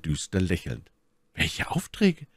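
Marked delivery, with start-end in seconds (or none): 1.3-2.3 very high falsetto lady's question; inquiring My Lady. A narrator's reading. Lady questioning her rescuer, high-pitched curiosity. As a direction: ask in a high, put-on lady voice.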